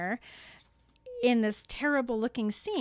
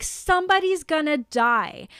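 alarmed Harry; 5 semitones higher, 4 dB louder than usual. Acted. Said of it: "he is like".

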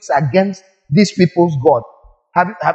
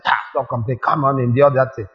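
God telling the sufferer to endure; dismissive God; 5 semitones lower than usual. Retold or imitated. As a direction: wave the complaint away. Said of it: "God looks and says".

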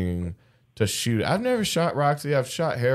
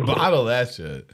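talking through burps; burping the words. Real, not acted. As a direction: push the words out on a burp. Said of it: "you guys are speaking through burps".

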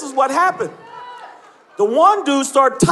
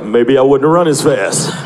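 lower, louder dopey guy; lowered bro voice; 9 semitones lower, 5 dB louder than usual. Retold or imitated. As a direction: drop it low like a dude musing. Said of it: "He's like".

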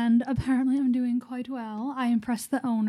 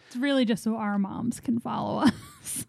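whispering. Real, not acted. Joking aside about moms.

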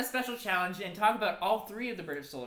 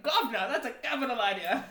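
put-on British accent; 4 semitones higher than usual. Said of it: "the British were like".

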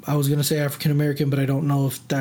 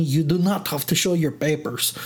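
lightly put-on, bad German accent; a hint of mock German officialdom; badly faked German accent. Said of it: "that was a really bad German accent".

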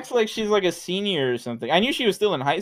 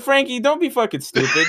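higher-pitched mock shout of disbelief; exasperated retort; 8 semitones higher than usual. Telling a friend off in a retold argument, exasperated. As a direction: retell it as an incredulous outburst.

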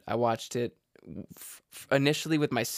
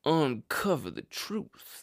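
"Everyone in the wildly dysfunctional Thrombey family" read in a slow southern drawl; lightly imitated southern detective drawl. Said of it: "That's how he talks".

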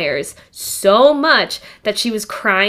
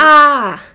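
dramatic sigh; 6 semitones higher, 9 dB louder than usual. Retold or imitated. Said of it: "a big sigh of relief".

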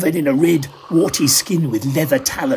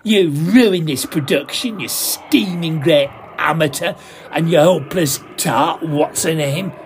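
put-on drunken rant; 3 semitones higher than usual. Drunk actor blaming the magician, ranting. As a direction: blame him for ruining the show.

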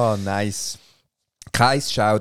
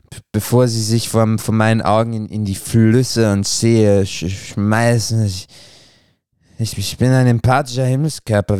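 put-on slurring drunk moon. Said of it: "und lallt vor sich hin".

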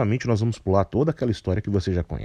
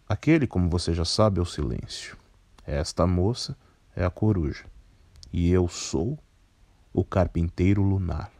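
put-on a lightly lowered, composed older man; low, measured voice; 3 semitones lower than usual. Carpinteiro Lunar speaks.

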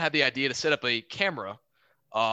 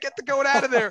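barked order; 9 semitones higher, 6 dB louder than usual. Retold or imitated. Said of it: "So they're like".

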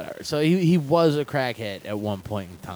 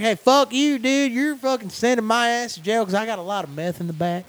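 high, loud hillbilly voice doing a meth-head redneck; twangy redneck putting on a show; angry redneck yelling at a cop; redneck accent; 9 semitones higher, 4 dB louder than usual. Retold or imitated. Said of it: "That's a really good accent".

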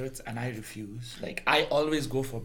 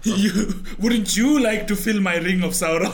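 laughing tease; 5 semitones higher, 7 dB louder than usual. Pretend. Mock seductive, laughing.

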